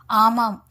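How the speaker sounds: "ஆமாம்" said firmly and distinctly; firm emphasis. A narrator's reading. Daughter confirms it is Murali, "ஆமாம்" firmly emphatic. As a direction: put clear weight on "ஆமாம்". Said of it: "Rajathi அழுத்தம் திருத்தமாக".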